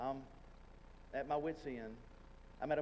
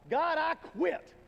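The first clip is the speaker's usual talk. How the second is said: much higher, much louder desperate scream; screamed at God; 13 semitones higher, 10 dB louder, much slower than usual. Retold or imitated. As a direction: cry out to God, fed up and done, long and drawn out. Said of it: "I literally scream out to God".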